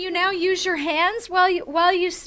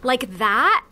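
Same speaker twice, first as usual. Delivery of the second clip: louder, animated voice-acting delivery; projected demo voice; 2 semitones lower, 4 dB louder than usual. Shown as a demonstration. Voice actor showing how arms lift the talk, projected. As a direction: talk it out big, as if using your arms. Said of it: "So you talk kind of like".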